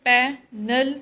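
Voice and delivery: "Panel" broken in two, weight on the final syllable; "Panel" said loudly, syllable by syllable; stress on last syllable. Shown as a demonstration. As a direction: split "Panel" into syllables and land firmly on the second. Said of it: "stress is on the last syllable".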